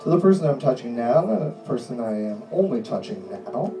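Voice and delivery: steady, insistent hypnotist delivery; hypnotic suggestion voice. Acted. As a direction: lull them in with firm calm commands.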